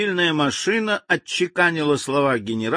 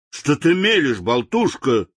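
yelling; 3 semitones higher, 3 dB louder than usual. Acted. General loses his temper and yells at the native. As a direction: lose patience and shout him down. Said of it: "завопил, не выдержав, Банну".

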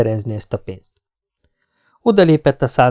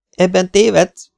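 slow, loud and high hostile retort; hostile growl; 8 semitones higher, 4 dB louder, slower than usual. A narrator's reading. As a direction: snarl it back at him slowly. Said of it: "mordult rá ellenségesen Vergeron". (lassú, hangos, ellenséges mordulás)

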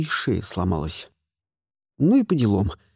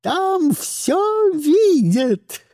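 slow, high fanatical scream; 11 semitones higher, much slower than usual. A narrator's reading. Madam Rodriguez threatening with a syringe, high slow scream. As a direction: shriek it like a zealot at the end. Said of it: "заорала она".

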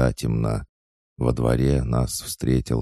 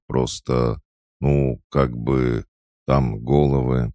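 hesitant. Acted. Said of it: "неуверенно ответил он".

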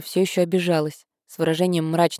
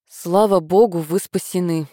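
mock-dramatic pathos, a bit louder; hammy stage actor; 3 dB louder than usual. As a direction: declaim it like a ham actor. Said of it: "с пафосом воскликнул Хью".

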